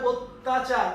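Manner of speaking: অত্যাচার said slowly as "ottachar"; pronunciation demo. Shown as a demonstration. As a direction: open অত্যাচার with a rounded "o" and double t. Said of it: "উচ্চারণ হবে".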